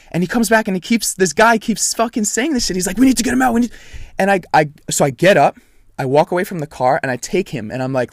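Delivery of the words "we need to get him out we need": high, loud, imitated frantic insistence; retold urgent yelling; panicking bystander. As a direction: mimic an onlooker yelling over people. Acting out the repeating bystander.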